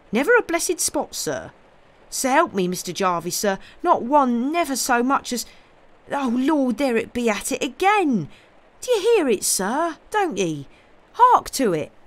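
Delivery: very high, loud rustic panic; frantic protest climbing into loud, high alarm; terrified servant. A narrator's reading. Servant protesting, then hearing the groaning again, terror-stricken. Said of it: "with terror-stricken face".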